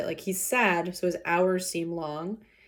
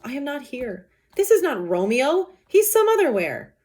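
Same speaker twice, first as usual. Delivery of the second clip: dramatic lament; 6 semitones higher, 4 dB louder than usual. Acted. Romeo's line performed.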